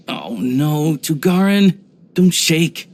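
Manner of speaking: high, alarmed cry to a shivering pup; worried call to the dog. Acted. Hunter calling to her dog Tugarin, soaked in the rain, alarmed and high. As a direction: rush to comfort the frightened dog, voice jumping up high.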